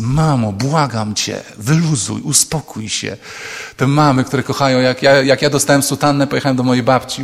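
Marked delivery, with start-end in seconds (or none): 0.0-3.2 put-on teen hiss. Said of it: "i ten syk".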